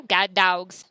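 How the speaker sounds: Southern dialect, DOGS said as DAWGS; Southern accent. Shown as a demonstration. Teacher previewing her daughter's reading, Southern accent. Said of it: "she is definitely from the South".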